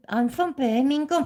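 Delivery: a plummy, proper take on I'm from Birmingham; mock the way he doesn't talk; imitating a proper accent; posh Birmingham mimic. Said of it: "he don't talk like a".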